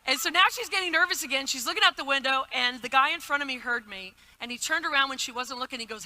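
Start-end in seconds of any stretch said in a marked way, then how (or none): none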